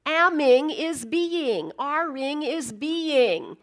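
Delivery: each word laid down slowly; slow, weighty declaration; slow emphasis. Acted. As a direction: drive the point home word by word.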